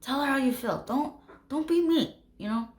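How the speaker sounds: high-pitched, insistent urging; urgent pep talk. Acted. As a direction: plead with a buddy to act. Acted urgent pep talk to friend.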